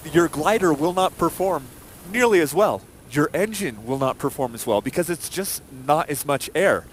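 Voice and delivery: breathless from talking fast; rushing, running out of air; out of breath. Real, not acted. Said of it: "I'm actually out of breath talking so fast".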